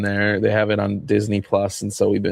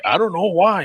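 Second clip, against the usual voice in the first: put-on old man voice; 9 semitones higher than usual. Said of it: "the two old men".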